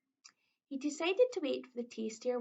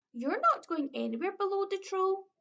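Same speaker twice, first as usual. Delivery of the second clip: troll threat; 7 semitones higher, 4 dB louder than usual. A narrator's reading. Troll threatens the biggest goat.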